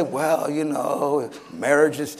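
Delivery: slow, soft, drawn-out waffling; mock hedging. Preacher mimics excuses about marriage, wishy-washy. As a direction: hedge slowly, as if softening a rule.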